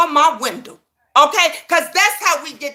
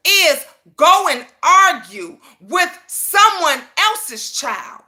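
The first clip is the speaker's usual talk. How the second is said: emphatic shout; 2 semitones higher, slower than usual. Real, not acted. Emphatic refusal, shout heard.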